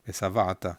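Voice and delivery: "ושבעת" with one stress, on va; single accent. Shown as a demonstration. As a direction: say "ושבעת" as vesa-VA-ta. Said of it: "you just have one here".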